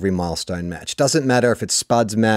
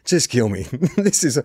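deflated commentator; 4 semitones higher than usual. Retold or imitated. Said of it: "you could just hear it in his voice".

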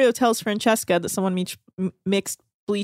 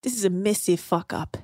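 Australian accent attempt; 4 semitones lower, 4 dB quieter than usual. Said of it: "I can't do an Australian accent very well".

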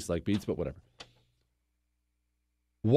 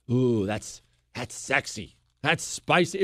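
mock swooning; 3 semitones lower than usual. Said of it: "You feel like".

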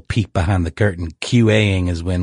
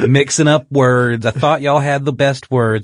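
slow, sweet southern lady voice, drawn out; condescending Southern lady, slow and sugary; mock southern lady; 3 semitones higher, slower than usual. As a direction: pity them like a syrupy southern belle. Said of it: "we read in that little southern, uh, lady voice".

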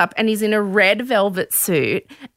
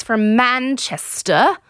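bad Manchester accent, drawn out; clumsy imitation of a Manchester accent; attempted Manchester accent; slower than usual. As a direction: have a poor go at Mancunian. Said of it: "wasn't a good Manchester accent".

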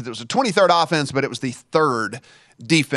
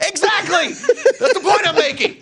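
high, laughing "exactly, that's the point"; laughing exasperation; 6 dB louder than usual. Retold or imitated. Host laughing at his cohost, high and amused. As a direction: laugh it out, pitched way up. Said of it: "I'm like".

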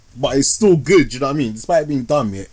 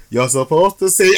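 louder retold cry of the girl; mock shout; 4 semitones higher, 4 dB louder than usual. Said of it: "and she says".

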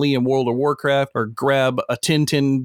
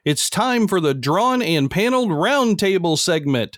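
ringmaster; 2 semitones higher than usual. Acted. Announcing the segment like a circus.

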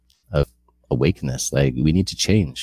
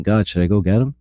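eager question; 6 semitones higher, 4 dB louder than usual. Retold or imitated. David asks God again.

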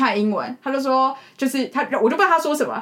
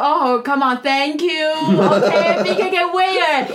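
slow mock officer; 3 semitones higher, much slower than usual. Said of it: "他说".

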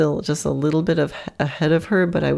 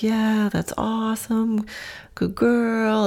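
higher, slower, sing-song praise; high, drawn-out good-girl voice to a horse; praising a horse; 7 semitones higher, slower than usual. Shown as a demonstration. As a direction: coo encouragement at a horse that's doing well. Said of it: "It sounds something like that".

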